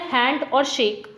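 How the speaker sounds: हैंड और शेक, slow, with equal weight on हैंड and शेक; evenly stressed हैंड, शेक; both syllables stressed. Shown as a demonstration. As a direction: give हैंड and शेक a firm beat each. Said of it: "दोनों को बोलने में जोर लग रहा है".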